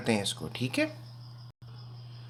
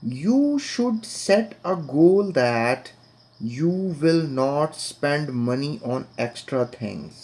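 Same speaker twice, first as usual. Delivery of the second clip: very slow, drawn-out teacher's reading; dialogue read-aloud; much slower than usual. Acted. Father advising his son on spending, slow read-aloud. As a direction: read it out slowly, stretching the words.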